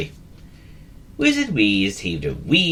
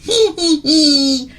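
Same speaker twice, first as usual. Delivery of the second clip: high, louder little hee hee; hopeful laugh; 8 dB louder, much slower than usual. A narrator's reading. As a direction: giggle up high, eager to please. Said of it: "laughed Sam, hopefully".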